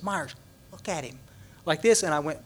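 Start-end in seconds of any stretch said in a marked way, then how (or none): 0.0-1.2 much softer, near-whispered aside; hushed aside. Retold or imitated. Friend Matt pointing out Dennis, hushed aside. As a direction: nudge a friend quietly. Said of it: "he goes".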